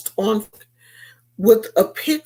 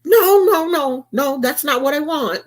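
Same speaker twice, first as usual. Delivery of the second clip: pleading friend; 5 semitones higher than usual. Retold or imitated. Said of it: "friend's reply".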